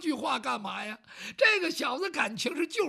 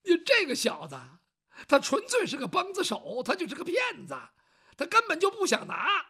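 higher, heated, shouting at times; indignant rant; 6 semitones higher than usual. Acted. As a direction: rail against the cheat. Servant ranting about the swindler.

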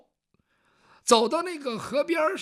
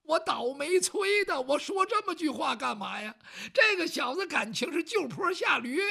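higher, fretting and cursing himself; exasperated self-reproach; 6 semitones higher than usual. Acted. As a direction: kick yourself for saying it. Servant cursing his own remark.

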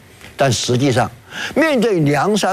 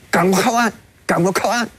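mock urgent plea, pitched higher; mildly acted urgent urging; retold urging; 4 semitones higher, faster than usual. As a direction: hurry the boatman along, raised pitch. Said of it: "赶紧催促自己船上那个老大".

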